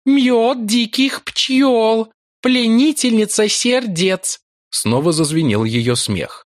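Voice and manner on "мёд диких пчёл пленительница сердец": high, slow, teasing temptress; seductive priestess voice. A narrator's reading. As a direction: purr it like a cruel seductress. Priestess Yolara voiced by narrator. (высокий голос коварной соблазнительницы)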